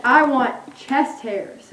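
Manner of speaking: slow, deliberate quote. Retold or imitated. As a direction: repeat the wrong words slowly. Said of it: "You said".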